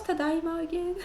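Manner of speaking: giggling, unsure question; laughing. Real, not acted. Vlogger forgetting a Japanese word, laughing. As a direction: laugh at your own blank.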